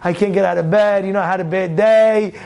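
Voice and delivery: low, weary mock excuse; listless, put-on tiredness; lazy excuse. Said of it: "That's where you see lazy".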